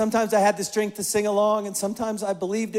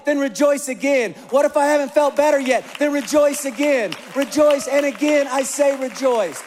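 loud, higher preaching with a falling tag on each answer; full force preaching; 5 semitones higher, 5 dB louder than usual. Acted. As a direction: hammer the answer home like a preacher.

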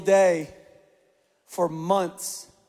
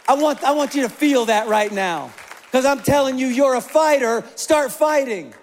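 loud, higher preaching with a falling tag on each answer; full force preaching; 4 semitones higher, 5 dB louder than usual. Acted. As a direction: hammer the answer home like a preacher. Preaching to the congregation.

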